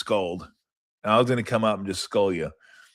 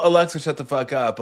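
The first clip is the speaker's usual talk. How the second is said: retold yell; 5 semitones higher than usual. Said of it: "when I yell".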